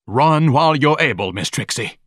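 grave warning that starts loud and high; great seriousness. A narrator's reading. Ignatius warning Miss Trixie to run, gravely urgent. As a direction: urge her away, dropping on the name. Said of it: "told her with great seriousness".

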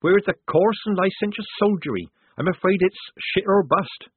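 Polly's character voice. Acted. Polly lectures Shufti as character.

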